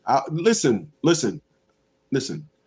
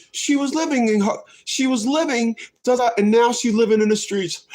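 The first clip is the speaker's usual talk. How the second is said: higher-pitched imitation of a tearful complaint; hammed-up tale of woe; mock sob story; 4 semitones higher than usual. Mimicking a sad story on TV, mock tearful.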